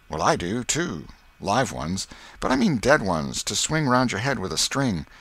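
lightly voiced boy, lively; eager boy Tom. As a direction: play an eager schoolboy, lightly. Tom's lines in the story.

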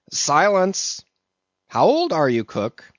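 high, loud demand; sharp command. A narrator's reading. Mate silencing the cook, sharp command. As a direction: cut him off and demand an answer.

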